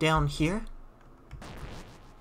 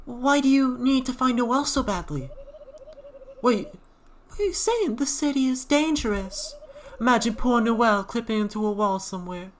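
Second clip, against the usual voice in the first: much higher, worried; high-pitched companion voice; 9 semitones higher than usual. Acted. Sidekick questioning the queen in a high voice. Voicing a second character.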